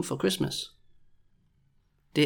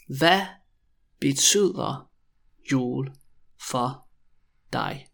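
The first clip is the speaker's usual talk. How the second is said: long gaps after every word; very slow, word by word; slower than usual. Shown as a demonstration. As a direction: dictate the question one word at a time. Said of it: "when I say it really slowly".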